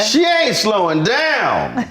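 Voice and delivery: high, slow, awed fan voice; impressed fan voice. Retold or imitated. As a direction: gush it in a high voice, slowly. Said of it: "I be like".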